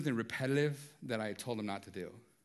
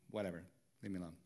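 sulky brush-off; 6 semitones lower, 9 dB quieter, much faster than usual. Retold or imitated. Sulky brush-off to wife retold.

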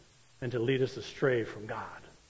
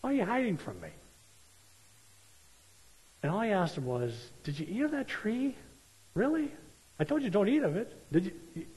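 gentle questioning; 5 semitones higher than usual. Retold or imitated. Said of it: "He's just like".

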